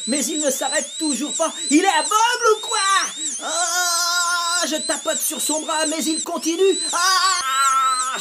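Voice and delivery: high, loud, panicked telling; frantic. A narrator's reading. Boy under the drill panicking, high and loud. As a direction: race through it in panic.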